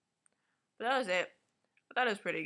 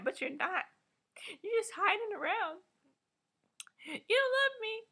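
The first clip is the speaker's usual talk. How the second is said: mock crying breakup. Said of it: "Jude was crying. He was like".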